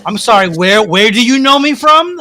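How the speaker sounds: mildly exasperated, slowing into the question; a touch of huffy, feigned puzzlement; lightly acted put-upon politeness; frustrated huff. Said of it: "like, frustrated huff".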